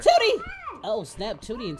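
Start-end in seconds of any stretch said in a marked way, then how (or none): 0.0-0.4 higher, loud shocked call; shout. Real, not acted. Gamer shouts at characters caught in the act, loud. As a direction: yell the name in surprise.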